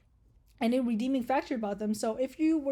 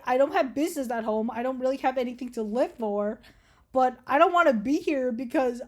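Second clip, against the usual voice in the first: loud demanding; 4 dB louder than usual. Pretend. Demanding release from captor.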